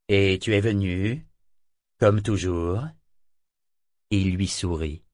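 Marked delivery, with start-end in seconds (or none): 0.1-2.8 a touch gentler, easing the edge; softened tone. A narrator's reading. Kenit softening toward Eta before the crew, mildly gentle. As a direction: soften it just slightly. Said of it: "Il adoucit le ton".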